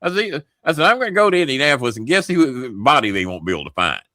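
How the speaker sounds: high, rushed mock panic; hammed-up fear of being killed; imitating panicked disbelief. Panicked retold protest.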